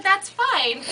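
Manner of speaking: witch voice. Acted. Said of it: "And she said".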